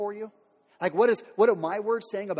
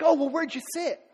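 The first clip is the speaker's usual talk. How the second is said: mock one-upper; 3 semitones higher, 4 dB louder than usual. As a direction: show off your seat, smug. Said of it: "You're like".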